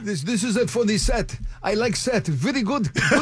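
put-on a shaky Middle Eastern accent that drifts Russian; high, sing-song Middle Eastern accent attempt. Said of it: "I'm trying to do Middle Eastern accent".

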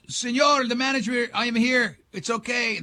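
calm the guests through the door; hotel manager. Retold or imitated. Hotel manager calling through battered door, lightly voiced reassurance. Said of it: "And then I hear".

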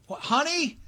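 sleepy wife. Retold or imitated. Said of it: "you hear the lady go".

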